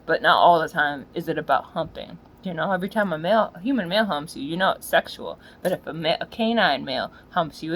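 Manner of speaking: ordinary talk, nothing marked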